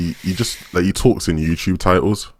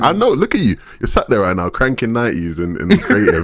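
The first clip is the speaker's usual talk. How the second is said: laughing tease; 4 semitones higher than usual. Pretend. Teasing listener, laughing.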